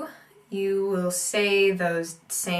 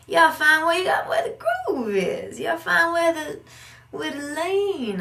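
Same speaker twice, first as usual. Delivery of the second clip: excited; 9 semitones higher, 5 dB louder than usual. Real, not acted. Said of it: "I also take out stress".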